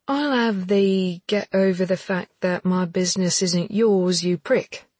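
icy sarcastic jab; cutting sarcasm. Acted. Anna voiced in dialogue.

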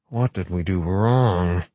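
slow, plaintive question. Acted. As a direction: ask it sadly and slowly. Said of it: "Wright asked plaintively".

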